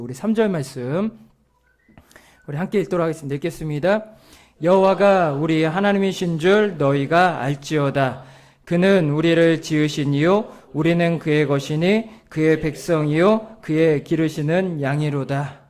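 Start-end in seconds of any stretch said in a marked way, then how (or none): 4.6-15.6 slow, measured reading aloud; scripture reading. Acted. Preacher reads the psalm together with the congregation, scripture reading. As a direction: read the verse solemnly and evenly for all to follow.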